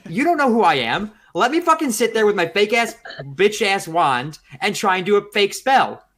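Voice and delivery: high, loud, exasperated ranting; ranting at nosy strangers, loud and high; heated rant. Real, not acted. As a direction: vent loudly at the busybodies.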